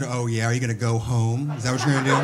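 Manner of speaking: sarcastic comeback, laughing through it; mock challenge. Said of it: "I said".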